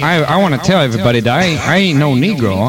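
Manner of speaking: put-on caricatured African American dialect accent. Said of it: "talk in a Negro accent".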